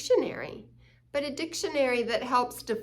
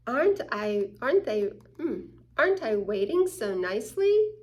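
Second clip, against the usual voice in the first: mock sweet waiting; 4 dB louder than usual. Acting waiting nicely, louder.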